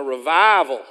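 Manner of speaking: REVIVAL with a loud, stretched middle syllable; regional revival. Shown as a demonstration. Preacher showing the congregation how to say it, revival stressed loud on VI. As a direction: punch and draw out the VI in revival. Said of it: "you gotta say this word right".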